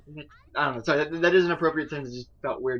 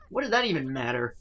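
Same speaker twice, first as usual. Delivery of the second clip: lightly voiced annoyed girl; 4 semitones higher, 3 dB louder than usual.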